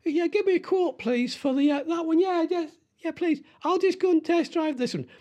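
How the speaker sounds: squeaky-high, flustered customer voice; nervous customer. Acted. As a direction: pitch it way up, eager and nervous. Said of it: "I don't know what my voice would go".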